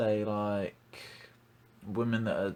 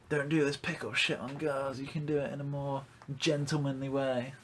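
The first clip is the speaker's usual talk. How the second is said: preachy do-gooder, pitched higher; white knight voice; 4 semitones higher than usual. Retold or imitated. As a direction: lecture like a smug nice guy. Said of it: "White Knights, like".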